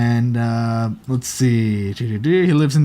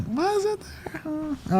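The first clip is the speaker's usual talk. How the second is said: puzzled; 12 semitones higher, 11 dB quieter, much slower than usual. Retold or imitated. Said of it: "you're like".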